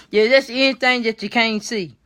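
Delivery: laughing while talking. Real, not acted. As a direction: talk through laughter. Laughs at the joke.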